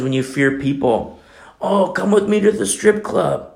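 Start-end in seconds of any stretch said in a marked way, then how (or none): 1.6-3.5 tempting friend. Retold or imitated.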